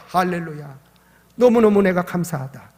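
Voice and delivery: normal talking voice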